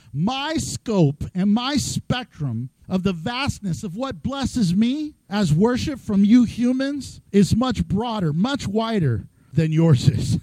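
slow, measured divine voice; voice of God. Retold or imitated. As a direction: speak slowly like God. God voiced speaking slowly.

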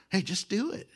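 hushed, tempting nudge. Retold or imitated. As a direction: coax him under your breath. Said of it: "like the Nike commercial".

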